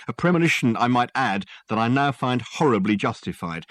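a cross sergeant, barely holding his temper; lightly voiced exasperated copper, building irritation; cross police sergeant. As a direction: sergeant lecturing a suspect with strained patience.

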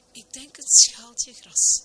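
high, loud, slow suggestion; awkward, high-pitched slow reply; acted bashfulness. A narrator's reading. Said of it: "zeide de damesgroen verlegen".

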